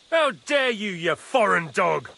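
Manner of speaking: indignant outburst. Acted. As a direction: lash out in outrage at an insult. Angry outburst at foreign physician.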